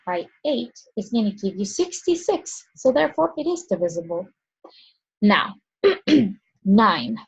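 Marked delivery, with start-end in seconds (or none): 5.2-7.2 dry mouth, clearing the throat; talking with a dry mouth. Real, not acted. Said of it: "my mouth is getting really dry".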